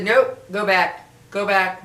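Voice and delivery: imitated inner command. Inner voice stops her at the main street, insistent.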